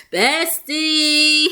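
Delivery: put-on high, drawn-out Baltimore-accented greeting. Woman greeting her visiting bestie, imitated Baltimore accent. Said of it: "Baltimore accent".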